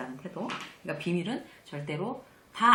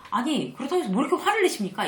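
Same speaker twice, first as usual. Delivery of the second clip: louder and higher, pushing back at an angry caller; indignant retort; 6 semitones higher, 5 dB louder than usual. Retold or imitated. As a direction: throw it back like a challenge. Snapping back at an angry client.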